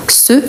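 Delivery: "ce" with the T left silent. Shown as a demonstration. Teacher showing learners the silent T, "ce" demonstrated. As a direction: say "ce" with no T sound at the end. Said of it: "on ne prononce pas le T".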